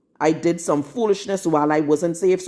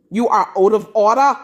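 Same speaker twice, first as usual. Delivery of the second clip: stern rebuke; 3 semitones higher, 5 dB louder than usual. Real, not acted. Rebuking women online.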